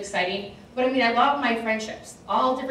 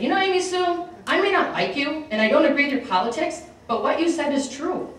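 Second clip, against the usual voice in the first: veterans' grudging praise; 6 semitones higher than usual. Retold or imitated. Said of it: "And they said".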